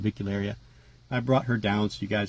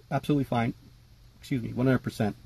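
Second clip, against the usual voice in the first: hiccups; 2 semitones higher than usual. Real, not acted. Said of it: "I get the hiccups when I film".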